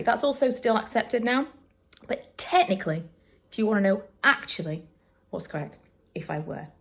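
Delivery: ordinary talk, nothing marked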